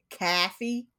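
"caffey" with a flattened first vowel; New York "caffey". Retold or imitated. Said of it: "they always pronounced it".

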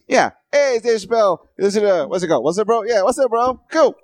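high, breezy buddy voice; casual bro greeting. Retold or imitated. Pitching himself to Dave Chappelle as a chill bro. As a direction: play it cool and friendly. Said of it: "The best you can say is".

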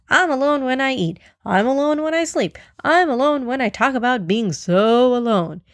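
mocking singsong of loneliness; mock lonely speech. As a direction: imitate someone's self-pitying speech. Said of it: "his whole lonely speech".

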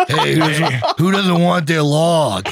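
put-on giggling kid asking around; laughing while asking. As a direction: ask through laughter, slowly. Kid collecting celery logs.

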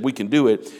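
firm, confident "We can do it.". Retold or imitated. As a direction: say "We can do it." like a believer. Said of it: "the two that said".

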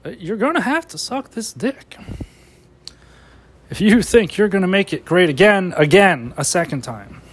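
lightly voiced rambling Biden; mock Biden trailing off; a hint of Biden muttering; Biden impression. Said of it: "That's my Biden impression".

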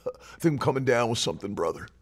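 low, quick, soft imitation of defeated talk; hurried, mock-pitiful murmur; mock sickly complainer. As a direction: mimic a resigned brother, sinking away at the end. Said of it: "We go".

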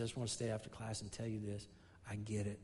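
soft, low, gently smiling retelling; smiling student. Retold or imitated. Student confiding in her teacher after class, softly smiling. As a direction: quietly voice a pleased student, lightly imitated. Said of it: "with a smile on her face".

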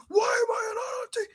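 mock shout. Podcaster mocks wrestler demanding TV time, high shout. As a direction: demand it like a spoiled heel. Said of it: "Yeah, it's".

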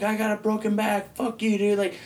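high-pitched retold complaint; pained protest. Cuffed man telling cops they're hurting him, protesting.

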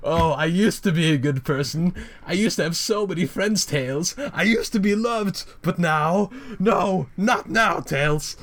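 high, wailing Joker lament; cringe Joker. Retold or imitated. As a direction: ham up a tragic Joker villain. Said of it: "the Joker rant continues".

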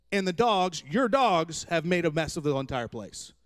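husband mildly imitating his wife's angry scolding; mild retold scolding. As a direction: lay out the list of complaints with building exasperation. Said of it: "She said it in a lot worse tone than what I just told you".

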